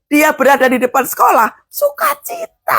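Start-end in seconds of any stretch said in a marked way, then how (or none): 1.7-2.8 very high, drawn-out cry of joy; joyful cry. Shown as a demonstration. Preacher acts a mother praying outside school, high jubilant cry. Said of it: "Doa itu harus sukacita".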